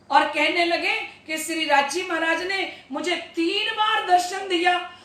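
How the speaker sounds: ordinary delivery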